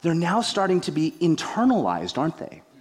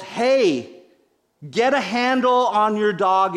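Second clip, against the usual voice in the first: half-replayed yell, a bit higher and louder; retold yell; 5 semitones higher, 3 dB louder, slower than usual. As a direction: re-enact shouting at the dog owner, only partly. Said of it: "And I yelled".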